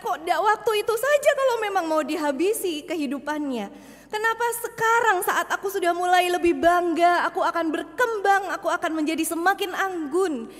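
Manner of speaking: mild angry protest of the wood; angry tree. Acted. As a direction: complain hotly at being cut down. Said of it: "Dia marah". (kayu yang protes dengan sedikit marah)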